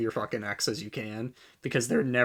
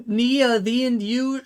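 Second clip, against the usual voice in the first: laughing; 9 semitones higher, 6 dB louder, slower than usual. Real, not acted. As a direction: laugh then high loud "Nia". Laughing at own misreading.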